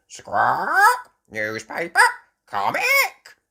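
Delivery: loud squawk, ending very high; parrot mimicry. Polly copying the dogs' order, squawky parrot voice. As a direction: squawk out each word separately. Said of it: "Polly Parrot copied".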